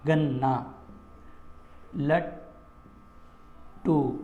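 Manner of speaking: very slow, split گنا and لٹو into gan-naa, lat ... too; doubled consonant. Shown as a demonstration. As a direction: pause inside the double letter of گنا، لٹو. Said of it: "دو دو آ رہے تھے".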